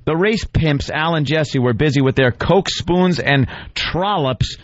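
pompous recital, lingering on the silly names; mock dramatic reading. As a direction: read the screed aloud, relishing each insult. Reads the writer's piece mockingly.

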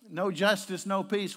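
loud, high protest shout; imitated screaming. Preacher voicing what society expected him to scream, shouted. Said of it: "why wasn't he screaming".

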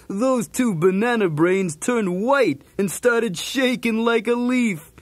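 usual speaking voice

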